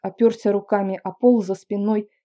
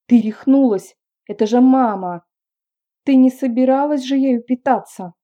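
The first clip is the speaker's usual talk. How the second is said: alarmed yelling; 4 semitones higher, 8 dB louder than usual. Acted. Brother yells in alarm.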